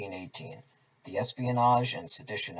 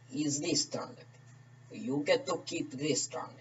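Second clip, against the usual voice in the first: put-on slow Russian accent; 4 dB quieter than usual. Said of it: "along with me doing accents".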